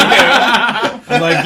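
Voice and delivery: laughing through the words. Real, not acted. Comic laughs at his own math story. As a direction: crack up mid-line.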